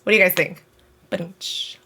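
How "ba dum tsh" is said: mock rimshot. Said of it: "it's a dumb pun".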